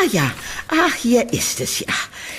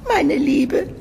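lifted high, eager and sweet; 4 semitones higher, much slower than usual. Acted. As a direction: sing it up with delight. Landlady eagerly grants moving in. (hoch und eifrig)

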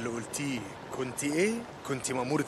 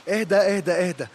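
raised, louder voice to settle someone down; urgent calming; 4 semitones higher, 8 dB louder than usual. Acted. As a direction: cut through their panic, higher and firm. Calming a panicked survivor. (تهدئة بصوت عالٍ وملحّ)

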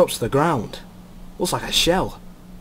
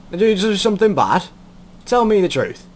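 big-brother questioning; 7 semitones higher, 4 dB louder than usual. Acted. Asking her like his kid brothers.

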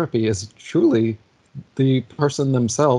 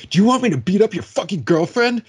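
imitated threat; 8 semitones higher than usual. Driver threatens at car window.

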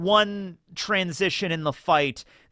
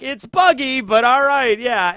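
high, louder, annoyed clown correction; Buggy voice; 9 semitones higher, 7 dB louder, slower than usual. Retold or imitated. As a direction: huff it out as the offended clown. Buggy correcting his name.

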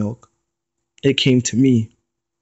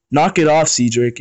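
scowling; 3 semitones higher than usual. Acted. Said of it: "Aries scowled".

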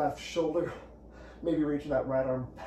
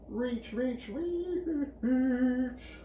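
shaking with effort; 10 semitones higher, much slower than usual. Real, not acted. Coach urging a reach mid-exercise.

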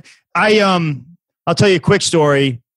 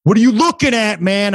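imitated in-your-face challenge, pitched up; confrontational stranger; 4 semitones higher than usual. Crazy guy getting in a walker's face, confrontational. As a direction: mimic a crazy guy squaring up. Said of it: "the guy sprints, like, and gets in my face".

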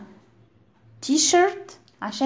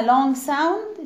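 drawn out; 3 semitones higher than usual. Shown as a demonstration. Teacher stretches words naming long sound.

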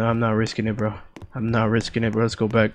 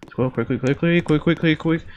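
being chased; 3 semitones higher than usual. Real, not acted. Being chased, urging himself on.

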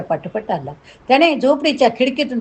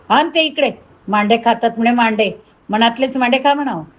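mildly scornful, pitched up at the start; mocking demand. Villain sneering at Mukta as he takes her tile, lightly mocking. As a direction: order her sharply, with a touch of mockery.

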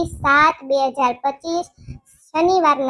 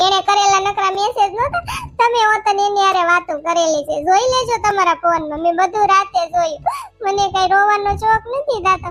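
higher, complaining wife's voice; wife voice, higher, accusing and upset; hurt wife; 5 semitones higher than usual. Acted. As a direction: whine at the husband, wounded and dramatic.

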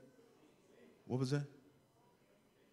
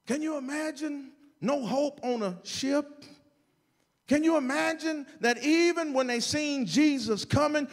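sermon delivery pressing through each phrase; forceful preaching; 10 semitones higher, 9 dB louder than usual. Real, not acted.

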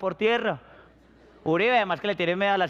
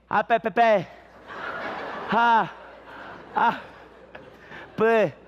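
lightly voiced stuttering coward; terrified stammer; slower than usual. The tongue-tied coward stuttering with fright, lightly voiced. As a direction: stammer it out in fear. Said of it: "el miedoso media lengua".

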